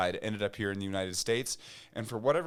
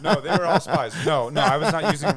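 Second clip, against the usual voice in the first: laughing; 5 semitones higher, 12 dB louder, faster than usual. Real, not acted. Laughing denial to co-host.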